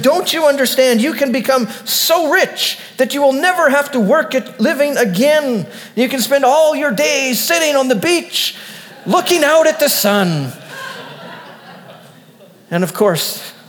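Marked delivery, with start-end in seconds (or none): 0.0-10.5 high, heated, pushing every word; raging shout. A narrator's reading. Businessman shouting at the calm fisherman in rage. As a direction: shout him down in exasperation. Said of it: "red with rage, shouts at the fisherman".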